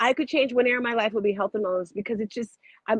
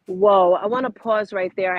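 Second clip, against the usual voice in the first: impressed; 6 dB louder than usual. Real, not acted. Host stops the guest to take notes.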